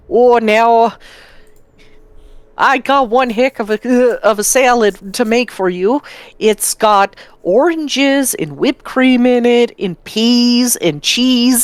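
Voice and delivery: put-on Wisconsin regional accent. Trying out the voice for a planned D and D bard, in a Wisconsin accent. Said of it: "My next D and D character is gonna have a Wisconsin accent".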